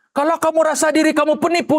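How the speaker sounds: usual speaking voice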